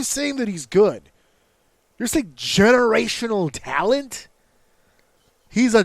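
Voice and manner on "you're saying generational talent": incredulous mockery. Mocking the friend's claim.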